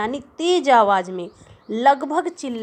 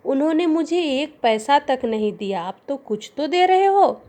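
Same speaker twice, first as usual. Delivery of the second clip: frightened voice; 3 semitones higher than usual. Acted. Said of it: "डरी और भयभीत स्वर में".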